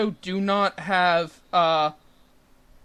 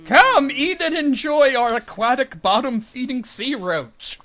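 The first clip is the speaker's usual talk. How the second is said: upbeat sales pitch voice; mock ad pitch; 6 semitones higher, 5 dB louder than usual. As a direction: sell it like a cheesy commercial. Mock seafood ad slogan.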